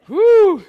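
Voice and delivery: high, loud "woo"; big piercing whoop of amusement. Real, not acted. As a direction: let out a sudden high whoop. Whoops after laughing at own point.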